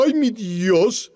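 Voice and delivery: slow, earnest "Ay, mi Dios" as a real call; reverent, slow "Ay, mi Dios" calling on God; sincere plea. Shown as a demonstration. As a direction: call "Ay, mi Dios" slowly, meaning it. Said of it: "lo llamo porque tengo necesidad".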